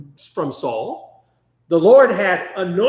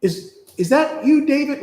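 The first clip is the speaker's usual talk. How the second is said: nice Saul; 6 semitones higher than usual. Retold or imitated. Saul recognizing David, gently imitated as nice. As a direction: gently imitate a softened change of heart. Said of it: "here's nice Saul".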